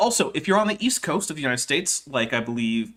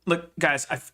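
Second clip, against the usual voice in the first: ordinary delivery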